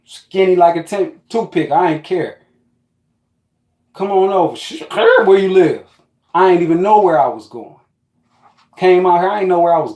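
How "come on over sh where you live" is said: quoting himself, eager and a touch higher; eager booty call. Retold or imitated. He replays inviting himself over, eager and pushy. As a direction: hurry her along, keen to come over.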